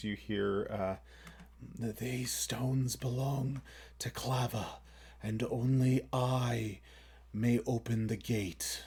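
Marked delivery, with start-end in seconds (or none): 2.0-8.8 very raspy, hushed voice, heavy rasp on every word. Game master voicing a voice heard at a stone gate, very raspy voice. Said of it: "in a very raspy voice".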